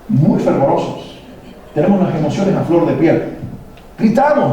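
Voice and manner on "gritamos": mock shout. Admits Latinos shout.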